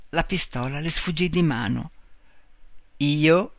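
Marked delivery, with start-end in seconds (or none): 3.0-3.5 blurted word, half laughing; choked with laughter. A narrator's reading. Fallen man blurts to Marta, choked with laughter. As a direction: burst out as if choking on laughter. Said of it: "sbottò soffocato dal riso".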